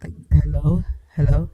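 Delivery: bass-boosted hello; deep filtered voice; deep voice effect. Shown as a demonstration. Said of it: "Sound deep".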